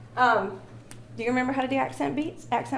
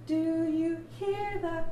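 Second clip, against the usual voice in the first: "hear" sung slow and louder; 6 semitones higher, 4 dB quieter, much slower than usual. Shown as a demonstration. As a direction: lean on "hear" so the beat stands out. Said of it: "that one louder?".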